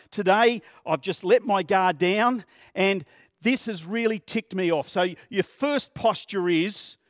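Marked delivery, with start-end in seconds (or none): 0.1-4.9 louder, exasperated complaint; an annoyed driver venting at the roadside; mock annoyed rant.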